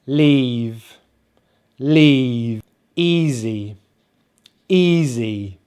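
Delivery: "Leave", "Easy" with drawn-out EE; long EE demo. Shown as a demonstration. Teacher giving E-A examples, long drawn-out EE. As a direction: say each word alone, stretching the EE. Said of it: "we have it spelt with an E A".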